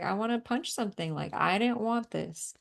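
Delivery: mildly exasperated protest; acted frustration. Healer voicing a client's frustration, mildly exasperated. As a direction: protest it with a touch of anger. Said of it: "There might be some frustration".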